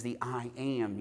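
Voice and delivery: "I am" set out as two weighted words; stress on I AM. Shown as a demonstration. Preacher explaining who Jesus is, stress on "I am". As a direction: give both "I" and "am" their own beat. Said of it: "each word one at a time".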